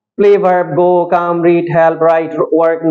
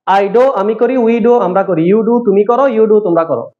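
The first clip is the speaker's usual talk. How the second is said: slow; slower than usual. Shown as a demonstration. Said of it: "আমি চার বড় রকম বলবো".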